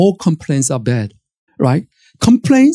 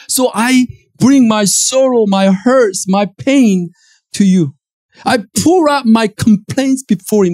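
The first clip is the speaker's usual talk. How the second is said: earnest prayer; 4 semitones higher than usual. Acted. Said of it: "they bring the issues and saying".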